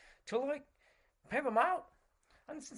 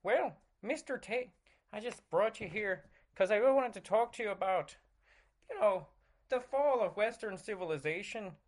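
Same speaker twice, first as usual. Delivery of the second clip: Jordan Peterson. Acted. Host introducing a very special guest, earnest impression. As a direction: play an earnest interviewer presenting a guest. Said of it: "Jordan Peterson in your".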